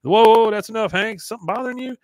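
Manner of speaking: high, loud mock startle; imitated alarmed check-in; startled concern. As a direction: cut him off, voice jumping up. Voicing Roger stopping Hank.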